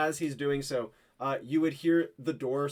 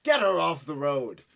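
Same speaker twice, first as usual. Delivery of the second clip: exasperated soldier; 4 semitones higher, 5 dB louder than usual. Acted. Soldier pressing the bitter woman to take Liv in. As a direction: lean on every word, pleading.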